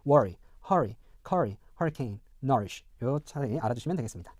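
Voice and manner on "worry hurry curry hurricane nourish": American accent, first vowel of worry, hurry as "uh"; evenly listed American model words, worry to nourish; American pronunciation. Shown as a demonstration. Teacher reviews example eight, American pronunciation. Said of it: "다시 한번 발음해보면서".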